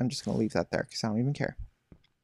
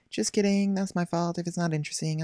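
playful; 5 semitones higher than usual. Real, not acted. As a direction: bounce it back brightly.

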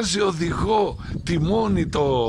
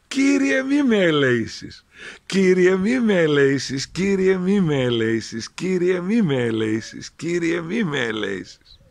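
a simple shepherd earnestly repeating a muddled prayer, a little louder; shepherd's wrong prayer; 3 semitones higher, 3 dB louder than usual. Acted. Shepherd alone at night, praying the wrong words earnestly. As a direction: chant the wrong words with naive devotion. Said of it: "άρχισε την προσευχή του".

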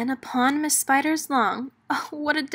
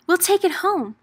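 pleased grin; 7 semitones higher, 4 dB louder than usual. Acted. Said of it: "Miss Spider grinned".

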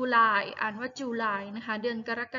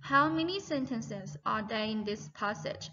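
slow repeated question; much slower than usual. Shown as a demonstration.

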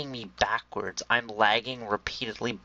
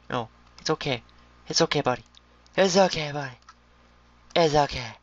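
high soothing pet talk; mock comforting; 4 semitones higher than usual. Gamer comforting upside-down pig, mock tender.

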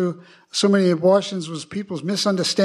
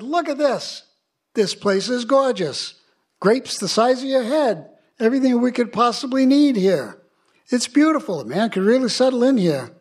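higher-pitched, admiring acted voice; impressed scout; 5 semitones higher than usual. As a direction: marvel aloud at the new land.

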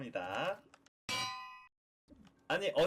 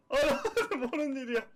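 denial broken by a laugh; 9 semitones higher, 4 dB louder than usual. Real, not acted. Streamer repeating the denial with a laugh.

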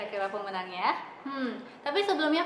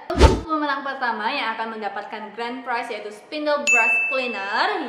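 hyped giveaway announcement; 5 dB louder than usual. Acted. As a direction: stretch out the prize name. Announcing the grand prize.

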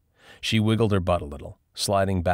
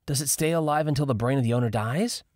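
Lauren's voice; 8 semitones higher, faster than usual. A narrator's reading. Lauren asks, high.

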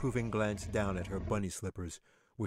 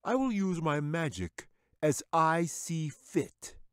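higher, drawn-out lordly wizard; haughty wizard; 9 semitones higher, 4 dB louder, slower than usual. A narrator's reading. Wizard to the bear, haughty and slow. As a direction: put the bear in his place, smugly.

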